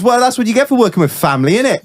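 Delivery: put-on quick, high Welsh accent. Welshman complaining about working with family, Welsh accent. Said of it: "I'll do my best Welsh accent".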